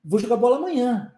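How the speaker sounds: quick "Vou jogar bola amanhã", the words run into one; casual run-together. Shown as a demonstration. Teacher shows how Brazilians really say it. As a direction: glide the words together like everyday talk. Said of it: "Olha só a junção de palavras".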